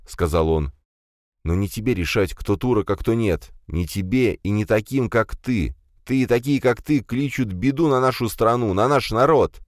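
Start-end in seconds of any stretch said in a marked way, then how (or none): 1.4-9.6 heated rebuke. Acted. Commissar lectures brother.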